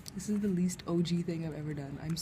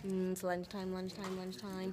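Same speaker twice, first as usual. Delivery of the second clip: quiet sing-song; 9 dB quieter than usual. Acted. Murmuring lunchtime to herself.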